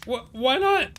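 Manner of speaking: high, whiny protest; Willy's voice. Acted. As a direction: plead like a scrawny kid.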